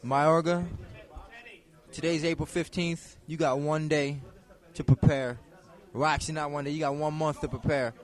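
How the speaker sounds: loud, menacing fighter's callout; trash talk promo. Pretend. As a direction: threaten your opponent into the mic. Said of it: "I want you to cut a promo here".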